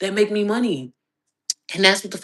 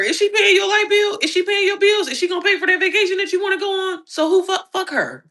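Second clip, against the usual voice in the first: sassy questions; 11 semitones higher than usual. Real, not acted. Mocking rhetorical questions.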